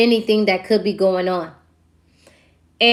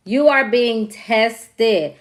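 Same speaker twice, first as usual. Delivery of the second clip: "You are being tested" drawn out slowly, each word weighed; slow down and lean on "are"; slow emphatic; much slower than usual. Real, not acted.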